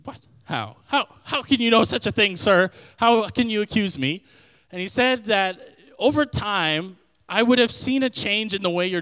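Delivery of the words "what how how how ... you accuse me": mock outrage. Teen feigns outrage at orthodontist.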